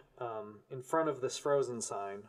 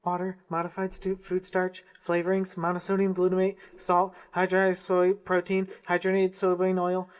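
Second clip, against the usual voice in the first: a hint of a chipmunk, louder; half-hearted squeaky chipmunk rattling; 5 semitones higher, 6 dB louder than usual. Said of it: "I can't do a chipmunk voice".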